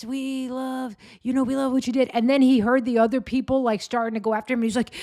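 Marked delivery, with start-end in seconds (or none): 0.0-2.1 mock sweet protester. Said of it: "like, being so nice".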